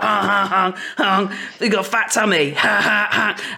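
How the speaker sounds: put-on goofy child honking and giggling; playful cheeky kid, high and bouncy; silly clown. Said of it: "be like".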